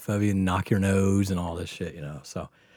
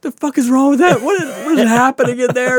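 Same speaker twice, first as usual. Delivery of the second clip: high, loud, incredulous demand; acted-out shrill bewilderment; retold freaked-out outburst; 9 dB louder than usual. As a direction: imitate a rattled friend demanding an explanation. Rattled friend demands explanation afterwards.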